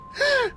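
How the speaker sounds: high startled intake of breath; sleep gasp. Retold or imitated. Sister gasping suddenly in sleep, high gasp. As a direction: gasp as if jolted. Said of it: "막 이래".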